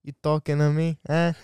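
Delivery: lightly voiced Italian mobster; half-hearted Italian tough-guy challenge; Italian mobster accent. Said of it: "do your Italian mobster accent".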